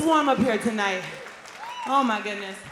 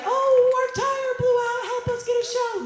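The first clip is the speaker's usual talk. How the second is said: mock helpless plea; 12 semitones higher than usual. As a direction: plead like a hammed-up stranded band begging for a gig. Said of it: "You can't just do your whole, like".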